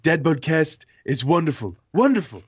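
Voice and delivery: a light Trump imitation with a stretched wonderful; Donald Trump. Host reading a fan's fake tweet as Trump. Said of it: "should I do my Donald Trump impression".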